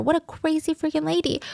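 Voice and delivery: high but unshouted mock yell; understated imitation of screaming; retold scream. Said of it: "when he's screaming at her".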